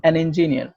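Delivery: an in an engineer leaned on; teacher stressing an engineer. Shown as a demonstration. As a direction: hit an before engineer. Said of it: "এ না বলে he is".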